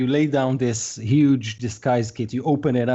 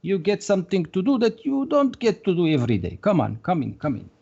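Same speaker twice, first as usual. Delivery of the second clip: fussy little shopkeeper, some lines pitched higher; a lightly voiced excitable shopkeeper fussing over scruffy guests; shopkeeper Mister Jolly; 4 semitones higher, faster than usual. Mister Jolly greets the ragtag party at his door, fussy and excited.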